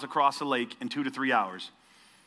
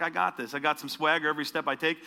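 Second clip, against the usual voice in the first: cocky swagger; 3 semitones lower than usual. Retold or imitated. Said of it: "a little cockier".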